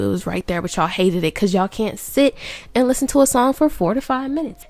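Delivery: winded after running; out of breath. Real, not acted. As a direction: talk while catching breath. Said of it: "you might be wondering why I'm out of breath".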